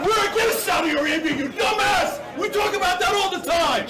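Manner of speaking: host angrily shouting back at a heckler; heated shout. Real, not acted. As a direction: shout him down with the facts. Host argues with Alex Jones.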